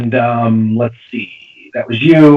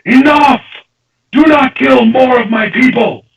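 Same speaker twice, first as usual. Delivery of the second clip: booming monster voice, raised and louder; deep voice; 12 semitones higher, 4 dB louder than usual. Acted. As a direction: roar it as the unseen creature's demand. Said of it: "a deep voice".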